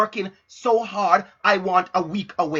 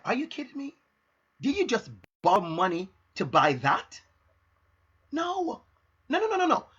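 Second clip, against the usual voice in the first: mock-appalled scolding without raising volume; retold disbelief; 3 semitones higher than usual. Retells own disbelieving reaction to borrowing.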